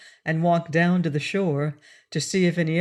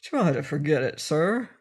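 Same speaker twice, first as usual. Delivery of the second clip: a touch calmer and gentle; mild sailor's reassurance; soothing. Acted. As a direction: settle the fussy man down kindly. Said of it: "advised Cap'n Bill soothingly".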